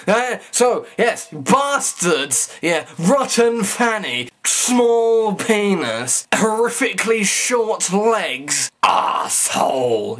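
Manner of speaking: drawn-out, deliberate name-calling, very slow; slow mock insults. Real, not acted. Vlogger insulting his viewers to feel good, slow mock spite. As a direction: spell out each insult slowly to make himself feel good. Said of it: "I'm gonna call you all bastards".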